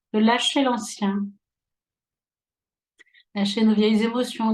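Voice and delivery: calm, unhurried guiding voice with long pauses; guided relaxation. Real, not acted. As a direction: ease them gently into relaxing, phrase by phrase. (voix posée de relaxation guidée)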